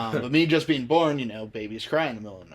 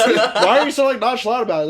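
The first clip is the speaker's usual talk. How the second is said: friend's voice; 10 semitones higher, 10 dB louder than usual. Retold or imitated. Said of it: "she goes".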